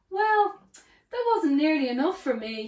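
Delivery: greedy character voice. A narrator's reading. Mister Greedy complains.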